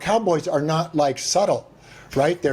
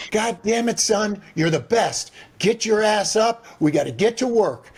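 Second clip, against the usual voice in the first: higher, rough cussing cowboy father; gruff cowboy dad; 6 semitones higher than usual. Retold or imitated. A cowboy dad rousing his son at dawn, gruffly cussing. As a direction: bark it like a blunt rancher dad.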